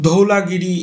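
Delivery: ধৌলাগিরি drawn out slowly as dhau-la-giri; English-spelling pronunciation. Shown as a demonstration. Teacher explaining the English spelling, ধৌলাগিরি slowly as dhau-la-giri. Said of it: "ইংলিশে লেখা হয়".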